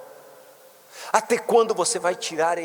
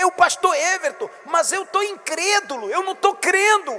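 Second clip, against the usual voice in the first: much higher, building to a loud cry for help; preaching at full force; 13 semitones higher, 5 dB louder than usual. Acted. Bishop voices the doubting father, building to a shout. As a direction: climb and climb until you shout.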